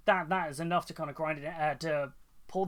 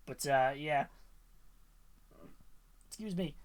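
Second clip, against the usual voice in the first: hiccuping between words; hiccups. Real, not acted. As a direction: talk through the hiccups. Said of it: "I was just hiccuping here".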